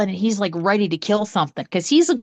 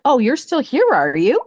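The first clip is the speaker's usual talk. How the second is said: higher, mildly mocking ghost voice; 5 semitones higher than usual. Jealous ghost taunting the guest, lightly mocking. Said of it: "she's like".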